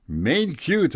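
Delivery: a quick, high German exclamation; German accent. Retold or imitated. Scientist muttering over the reindeer in a German accent. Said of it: "thick German accent".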